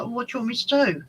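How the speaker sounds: retold, half-hearted indignant comeback; exasperated retort. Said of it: "And I was like".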